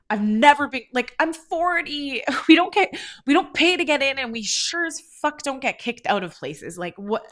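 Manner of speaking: high, loud, worked-up outrage; exasperated protest spilling out in bursts; indignant rant. Retold or imitated. Refusing to go back into the club, indignant rant.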